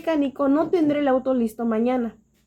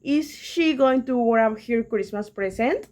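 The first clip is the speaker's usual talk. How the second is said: slow English question read; slower than usual. Shown as a demonstration. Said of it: "en este caso es".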